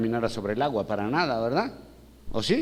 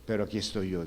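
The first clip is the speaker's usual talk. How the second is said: reassuring; 4 semitones lower, 4 dB quieter, faster than usual. Acted. Voices Jesus reassuring in storm.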